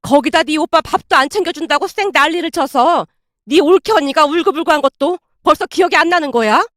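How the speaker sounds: indignant, relentless telling-off; sharp rebuke. Acted. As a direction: lay into a daughter crossly. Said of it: "아내에게 쏘아붙이고 있었고".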